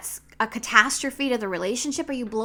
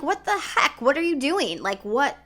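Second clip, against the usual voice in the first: loud, higher, exasperated yelling; angry husband; 4 semitones higher, 7 dB louder than usual. Retold or imitated. Husband yelling at wife over dented truck, angry. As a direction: blow up at her for denting the truck. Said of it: "my husband was pissed".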